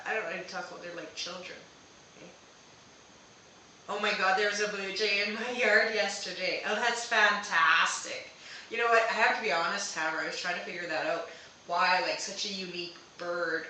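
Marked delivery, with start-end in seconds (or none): 3.9-6.6 reads the comment out loud and eager; bursting with delight; loud, excited comment read. Real, not acted. Reads viewer's blue jay comment. 6.7-9.9 can't contain the excitement; loud and thrilled reaction. Real, not acted. Reacts to blue jay comment.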